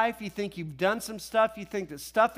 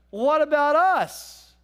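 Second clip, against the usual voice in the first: loud, drawn-out, higher-pitched complaint; indignant protest; 4 semitones higher, 6 dB louder, slower than usual. Retold or imitated. Disciples feeling left out, loud indignant protest. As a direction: protest it loudly, stretching the words.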